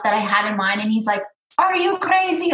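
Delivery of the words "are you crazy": imitating her dad's Arab accent, pitched up high; mock dad in an Arab accent; Arab-accented dad, exasperated and high. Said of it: "with his Arab accent".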